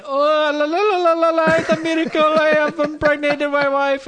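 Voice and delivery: high, loud french chef voice. Retold or imitated. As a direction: ham up an old French chef. Mocking the old husband.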